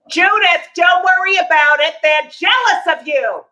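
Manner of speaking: high, loud mock motherly reassurance; mother's voice. Mother reassures her picked-on daughter, high loud mother impression. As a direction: call it out as the comedian's mother.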